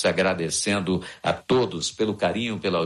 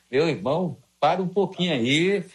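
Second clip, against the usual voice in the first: playful ribbing, pitched up high; friendly on-air needling, voice pitched up; teasing call-out; 7 semitones higher than usual. Real, not acted. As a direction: rib the guy who's working too hard. Host teasing an overworked colleague on air.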